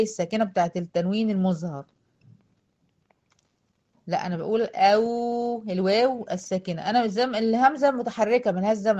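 ordinary talk

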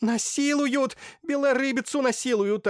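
пронзительно высокий громкий вопль; ори на весь дом. Acted. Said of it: "орала блаженная". (блаженная орёт, очень высоко и громко)

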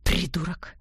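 through gritted teeth. Acted. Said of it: "процедил сквозь зубы".

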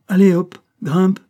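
loud, high circus call; barked command. A narrator's reading. Banquiste pushes the child with his stick, barked command. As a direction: drive the child up with a shout.

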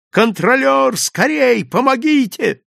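high, urgent cry for help; loud, desperate calling; all-out shout. A narrator's reading. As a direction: scream for help at full strength. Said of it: "что было сил".

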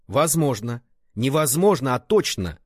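громче, с упором на «Невозможно» и «точно»; дави на каждое слово, не давая спорить; с нажимом. A narrator's reading. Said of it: "с нажимом сказал Ван Цин". (Ван Цин с нажимом убеждает брата)

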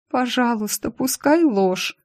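high, slow begging plea; pleading. Acted. Heroine begs the boss, high and pleading. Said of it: "взмолилась я".

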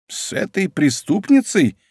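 can't believe what she hears; surprised. Acted. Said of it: "удивилась Атарашики".

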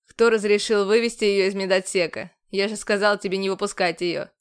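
furious commander reining in a shout; contained shout. A narrator's reading. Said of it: "Процедил сквозь зубы командор".

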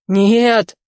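loud, high, panicked no; alarmed shout into the phone. A narrator's reading. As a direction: cut him off with a shout. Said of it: "закричал Ризо".

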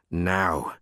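firm, measured command; stern. Acted. Librarian confronting the caught culprit, stern. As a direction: lay down the law sternly. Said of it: "she said sternly".

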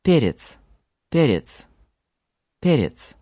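Перец said with e as in tent, repeated; Перец: short open e. Shown as a demonstration. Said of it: "can also sound like English er".

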